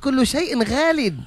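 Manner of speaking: villain voice. Pretend. Villain gloats, slow.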